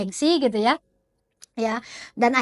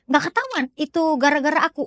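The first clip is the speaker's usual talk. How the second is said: quick, higher-pitched anxious check; worried question; 4 semitones higher, faster than usual. Acted. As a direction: ask the healer as a mildly worried plotter. Nervous client questions the healer.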